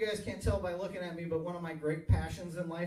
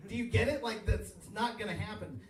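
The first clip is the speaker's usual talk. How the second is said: ordinary talk, nothing marked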